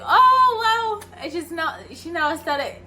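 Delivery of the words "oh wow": high, loud thrilled wow; grandma greeting with delight; amazed wow. Retold or imitated.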